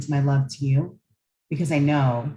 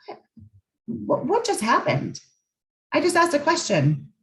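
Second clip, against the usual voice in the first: dumbfounded; 9 semitones higher than usual. Retold or imitated. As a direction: play the partner caught off guard, baffled. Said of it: "you're just dumbfounded".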